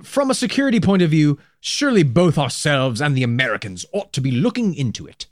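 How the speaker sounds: lightly voiced politician's quote; imitating an MP putting a question; Doug Hoyle. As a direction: start high, then settle into a put-on quote voice. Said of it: "something Doug Hoyle asked".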